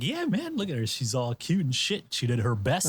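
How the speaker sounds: starts very high, settles down; host justifying his pick, lightly voiced; mock smug host. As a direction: tease it like a smug judge. Retelling Kasuga praising Nibu.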